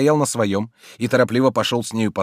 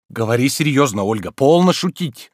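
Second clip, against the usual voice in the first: Oblomov, mildly stern; 6 semitones higher, 7 dB louder than usual. A narrator's reading. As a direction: tell her to stop joking. Oblomov pleading. (Обломов строго просит)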